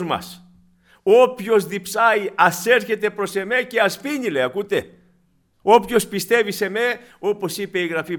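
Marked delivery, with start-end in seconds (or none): 1.0-4.3 proclaimed scripture. Acted. Preacher quotes Jesus loudly. 5.6-7.0 proclaimed scripture. Acted. Preacher quotes scripture.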